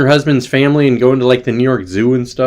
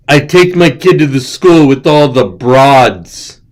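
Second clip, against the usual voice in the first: put-on joke voice; 4 dB louder, slower than usual. Shown as a demonstration. Joke voice repeat of line.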